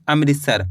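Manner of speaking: अमृतसर with मृ said "mri"; "mri" pronunciation. Shown as a demonstration. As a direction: sound out "mri" inside अमृतसर. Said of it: "मृ कर को उच्चारण निकालना है".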